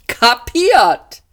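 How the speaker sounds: high, loud chirpy "Kapiert" answer; a perky ship computer confirming; lightly voiced computer.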